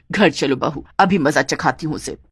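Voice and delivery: put-on low, menacing older woman; threatening mother-in-law. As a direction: promise punishment in a low voice. (सास की नीची धमकी भरी आवाज़)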